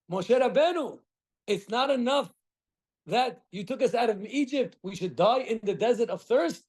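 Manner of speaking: high, aggrieved complaining; whiny complainers. Retold or imitated. Complainers accusing Moshe in the desert, high and whining. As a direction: whine it like chronic complainers.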